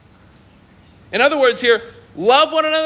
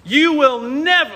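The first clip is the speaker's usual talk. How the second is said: higher, slow raised protest; indignant Peter; 6 semitones higher, much slower than usual. Retold or imitated. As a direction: jab the words like pointing a finger. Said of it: "And Peter says".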